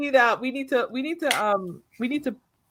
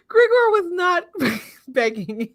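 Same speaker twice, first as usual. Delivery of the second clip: laughing protest; 8 semitones higher, slower than usual. Real, not acted. Laughing at friend's joke.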